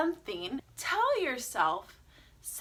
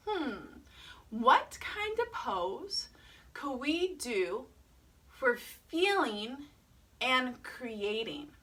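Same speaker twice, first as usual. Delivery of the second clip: slow, soft pondering; softly puzzling it out for children; musing aloud; 2 semitones lower, 6 dB quieter, slower than usual. Pretend. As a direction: wonder aloud, slowly and quietly.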